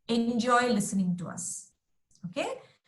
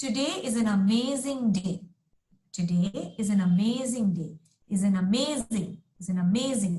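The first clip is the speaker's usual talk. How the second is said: every word clear, weight on "amazing"; teacher modelling the right rhythm for a student; natural stress on amazing; 4 semitones lower than usual. Shown as a demonstration. Enunciated, stress on amazing. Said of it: "you can hear every single word that I'm enunciating".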